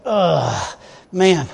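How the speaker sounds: acted groan of stomach cramps; sick groan. Worker retelling waking up sick, mock sick groan. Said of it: "these cramps in your stomach".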